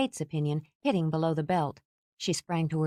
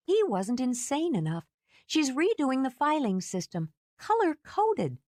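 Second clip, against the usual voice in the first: Margot's voice; 9 semitones higher than usual. Acted. Margot's voice continues.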